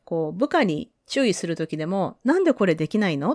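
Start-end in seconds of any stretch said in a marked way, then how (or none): 2.2-3.3 quick, mildly mock scolding. Shown as a demonstration. Boss scolding a subordinate, quick mock anger. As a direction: snap at them, half-hearted. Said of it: "って怒るんじゃなくて".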